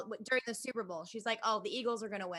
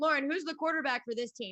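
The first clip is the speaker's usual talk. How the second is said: mock big, brash, loud, blustering know-it-all voice; 4 semitones higher, 4 dB louder than usual. Imitating a neighbor in a home league, a very loud man: imitating a loud man. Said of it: "he's a very loud, large man".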